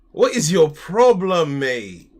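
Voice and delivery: drawn-out demand with real exasperation; exasperated and loud. Real, not acted. Exasperated at kid on phone.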